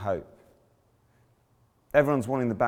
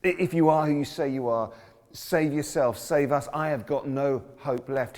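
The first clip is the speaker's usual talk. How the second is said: yelling thief; 5 semitones higher than usual. Retold or imitated. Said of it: "one is yelling at Jesus".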